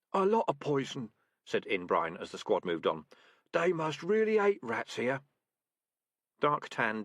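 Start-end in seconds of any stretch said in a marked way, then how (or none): 0.1-5.2 put-on much higher, timid young rat; timid deputy rat. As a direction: report nervously to the boss. Inbrine speaking.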